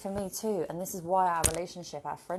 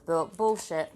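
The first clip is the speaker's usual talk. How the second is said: silly outburst; 6 dB louder, slower than usual. Pretend. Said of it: "I'm in a real silly mood".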